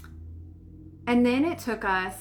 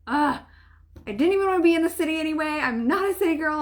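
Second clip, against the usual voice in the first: frustrated grumbling; 8 semitones higher, 5 dB louder, faster than usual. Retold or imitated. Frustrated griping in traffic.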